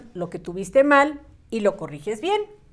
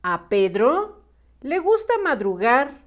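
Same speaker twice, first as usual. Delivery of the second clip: storybook reading with lifted intonation and pauses; measured children's story narration; 3 semitones higher than usual. A narrator's reading. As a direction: read it out phrase by phrase for young pupils.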